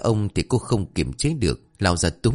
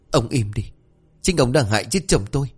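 higher-pitched, indignant widow; angry accusation; 4 semitones higher than usual. Acted. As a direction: cut him off and accuse him. Widow shouts down the creditor. (giận dữ buộc tội)

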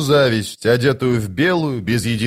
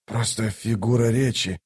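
soft, subdued backpedal; meek excuse; 5 dB quieter than usual. Acted. Toc stepping back from Lady Envy, meek. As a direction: excuse yourself quietly.

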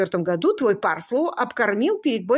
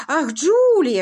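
bright, higher, louder exclamation; sudden recognition; 8 semitones higher, 6 dB louder, slower than usual. Acted. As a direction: perk up all at once at the name. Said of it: "оживился граф". (оживлённо, вдруг вспомнив)

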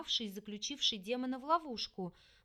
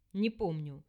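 demon voice; 6 semitones lower than usual. Acted. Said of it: "после продолжительной паузы ответил он".

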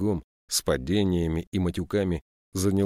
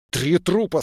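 much higher, louder shout; angry shout; 11 semitones higher, 6 dB louder than usual. A narrator's reading. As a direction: yell the body count at her. Furious policeman at gunpoint.

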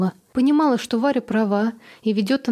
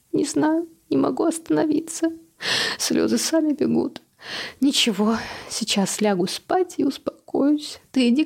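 tearful; 6 semitones higher than usual. Acted. Mother crying, can't stop.

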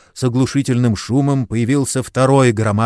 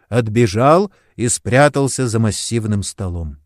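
plain reading voice

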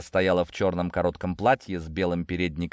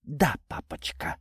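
slow, higher-pitched mock sweetness; snide; 5 semitones higher, 4 dB quieter than usual. A narrator's reading. Natasha answering her newly revealed father, snide. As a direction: draw it out with spiteful sweetness. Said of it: "ехидно ответила Наташа".

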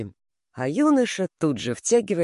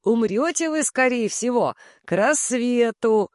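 loud and clear; 7 semitones higher than usual. A narrator's reading. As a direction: call it out loud and crisp. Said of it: "говорить громко и отчётливо". (громко и отчётливо)

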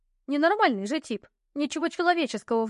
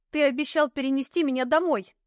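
higher, nervy cry of protest; nervous outcry; 4 semitones higher than usual. Acted. Heroine in pain protests to the knight, nervous cry. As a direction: blurt it out on edge. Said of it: "нервно выкрикнула я".

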